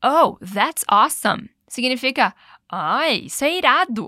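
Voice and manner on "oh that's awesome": mildly excited. Acted. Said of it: "ele continua".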